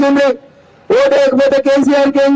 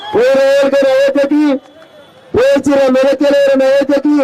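forceful public oration in measured phrases; political rally speech. Real, not acted. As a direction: address the crowd from the stage, phrase by phrase. (బహిరంగ సభలో రాజకీయ ప్రసంగం)

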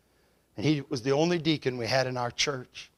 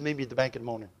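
Kentucky mumble; 4 semitones lower, 7 dB quieter, much faster than usual. Retold or imitated. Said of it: "He spoke in an unusual way".

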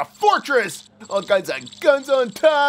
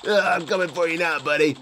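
pitched down, mock-sinister threat; lower, mock-menacing taunt; low mock menace; 6 semitones lower than usual. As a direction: growl it like a pretend villain. Playful taunt at game enemy.

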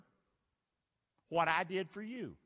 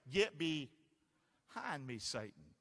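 Jesus rebuking; 2 semitones lower, much slower than usual. Retold or imitated. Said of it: "Jesus said it to Peter this way".

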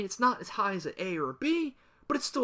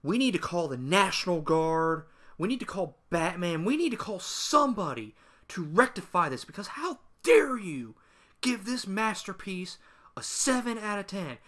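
sarcastic outrage. Pretend. Gamer mocking fanboys over a review score, sarcastic outrage. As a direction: play scandalized, hammed-up and heavily sarcastic. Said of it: "the insane amount of sarcasm".

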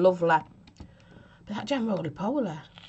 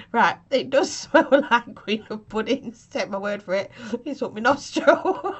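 laughing. Real, not acted. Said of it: "I'm crying".

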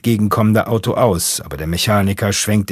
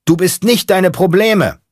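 high, loud chant from the back seat; shouted echo; 11 semitones higher, 4 dB louder than usual. Acted. Space monkey in the back seat echoing the mechanic, shouting. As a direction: yell it back like a disciple.

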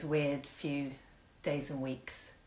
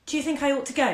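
a touch of nerves, higher; lightly nervous, asking higher; nervous question; 7 semitones higher, 5 dB louder, faster than usual. A narrator's reading. Lillian nervously asks her friend, a touch anxious. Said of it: "Lillian asked nervously".

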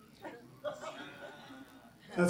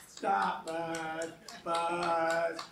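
fruit fly; 3 semitones lower, much slower than usual. Pretend. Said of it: "My impersonation of a fruit fly".

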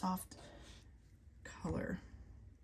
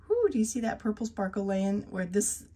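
1 excited; 2 semitones higher, 6 dB louder than usual. Real, not acted. Excited by purple sparkle.

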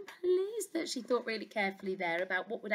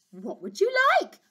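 beaming king; 12 semitones higher, 5 dB louder than usual. Acted. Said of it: "beamed the king".

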